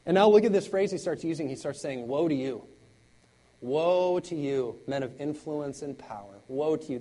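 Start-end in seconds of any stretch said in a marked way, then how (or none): 2.1-7.0 guttural curse. Acted. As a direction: pronounce woe like a curse from the gut. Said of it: "This is like a guttural, gut-level curse".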